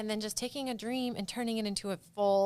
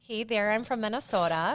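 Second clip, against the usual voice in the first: a playful put-on Minnesota accent; chirpy Midwestern Minnesota voice; hammed-up Minnesotan accent; mock Minnesotan accent. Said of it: "drop a Minnesotan accent".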